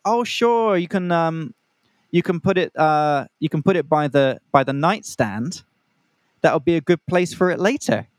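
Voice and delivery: hint at something naughty later, playfully; imitating the flirty date. Mimicking the date offering a spot for the cash, teasing.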